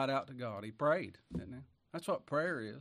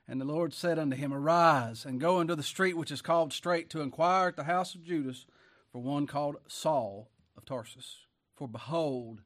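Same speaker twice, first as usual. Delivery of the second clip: loud, raised preacher's reading voice; forceful scripture reading; 5 dB louder than usual. Acted. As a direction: proclaim the verse, pitched up and ringing out. Reads scripture aloud forcefully.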